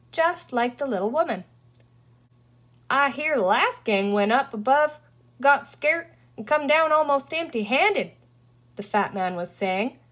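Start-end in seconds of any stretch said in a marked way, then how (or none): 2.9-8.1 folksy western twang; cowboy talk. Acted. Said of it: "strange to hear him talking like a cowboy".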